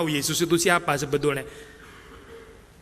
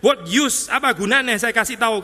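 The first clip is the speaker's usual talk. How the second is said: higher, louder with a laugh; voicing Jesus, laughing at how pointless it is; exasperated; 6 semitones higher, 4 dB louder than usual. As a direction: throw up your hands, half laughing. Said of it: "kesesekannya Yesus".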